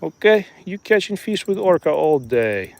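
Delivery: slow, hammed-up Russian accent; joking Russian accent, slow; mock Russian accent. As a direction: play a boastful Russian fisherman. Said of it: "stop the Russian accent".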